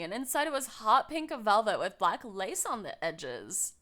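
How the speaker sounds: lightly voiced annoying high schooler; a hint of annoying bratty high schooler. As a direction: read it as a slightly bratty teenager. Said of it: "annoying bratty high schooler accent".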